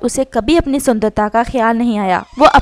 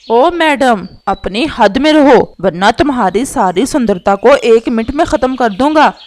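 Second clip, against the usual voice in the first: louder, mildly menacing husband voice; angry warning; 5 dB louder than usual. Acted. Husband threatening his vain wife, angry and forceful. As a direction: warn with a raised voice.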